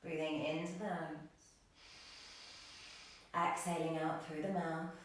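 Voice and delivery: calm, unhurried meditation voice with long pauses; guided meditation. Real, not acted. Yoga teacher guiding the class into breathing, guided meditation. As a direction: ease the class gently into stillness.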